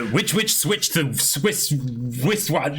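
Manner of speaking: careful, slow tongue twister; deliberate tongue twister attempt. Shown as a demonstration. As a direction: spell it out slowly, word by word. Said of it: "So how about this?".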